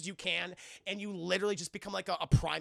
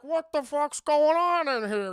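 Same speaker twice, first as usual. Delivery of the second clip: loud, slow, higher outraged yell; loud angry shout; angry demand; 6 semitones higher, 9 dB louder than usual. Retold or imitated. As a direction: burst in furious. Dad comes home to chaos.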